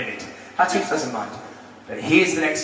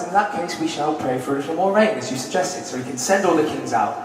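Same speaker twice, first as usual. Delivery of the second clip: composed, softening as it goes; retold calm ruler, understated; very calm Mukabang; 5 semitones lower, 4 dB quieter than usual. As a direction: answer the uproar calmly and evenly. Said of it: "very calmly".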